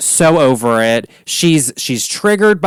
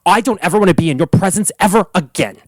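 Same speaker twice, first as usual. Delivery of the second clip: second try at Ramona; 3 semitones higher, faster than usual. Retold or imitated. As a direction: rattle it off as Ramona, more committed. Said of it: "let me see if I can do it".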